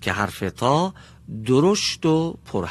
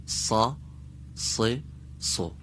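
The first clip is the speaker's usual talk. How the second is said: سریع خواندن؛ سا و س و سو تند و پشت سر هم؛ سریع بخوان؛ صادها سریع و درشت; 6 dB quieter, much slower than usual. Shown as a demonstration.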